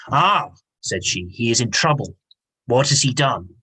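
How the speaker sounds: lightly voiced witch relishing bad news; evil witch. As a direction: read it like a mild wicked old woman gloating. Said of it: "a bit like a cackle, an evil witch".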